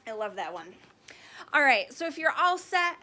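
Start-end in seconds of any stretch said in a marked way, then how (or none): 1.5-3.0 cheerful sign-off. Real, not acted. Sign-off to listeners.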